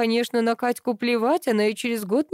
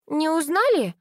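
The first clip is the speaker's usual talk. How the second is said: put-on little girl; 8 semitones higher than usual. A narrator's reading. Child character speaks.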